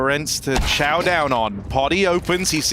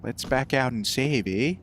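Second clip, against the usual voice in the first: lowered, softer stab at a Canadian accent; a self-doubting try at Canadian; 3 semitones lower, 5 dB quieter than usual. Shown as a demonstration. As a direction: attempt a Canadian "eh" at the end. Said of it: "I can't do a Canadian accent".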